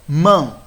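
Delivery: "mão" in one stressed push; single voice impulse. Shown as a demonstration. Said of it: "pronunciadas com um único impulso de voz".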